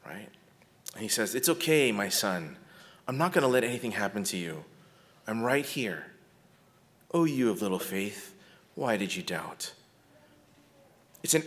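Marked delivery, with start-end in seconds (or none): 1.3-9.7 softer, tender reassurance; father soothing his scared son; gentle compassion. Acted. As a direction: comfort a frightened child in your arms. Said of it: "saying this with gentle compassion".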